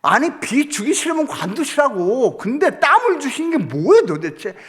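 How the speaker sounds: mock indignant grumble; grumbling prayer. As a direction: sulk and gripe at heaven while hauling gear. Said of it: "이렇게 막 궁시렁거리면서".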